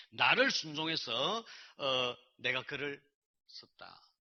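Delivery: slow, weighty divine pronouncement; halting, stretched-out translated-sounding speech; God speaking English-like Korean. Retold or imitated. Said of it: "영어로 말씀하시는 것처럼".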